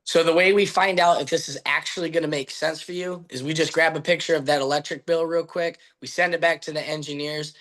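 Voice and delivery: steady, sure of every word; absolute confidence. Shown as a demonstration. Salesman pitching the bill check with confidence. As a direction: state it like it's settled. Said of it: "let's say this with absolute confidence".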